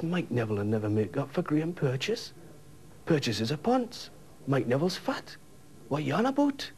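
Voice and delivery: indignant Geordie rebuttal, climbing high at the end; incredulous protest. Retold or imitated. Teller argues with colleague over the reason, incredulous and rising. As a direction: argue back in mounting disbelief.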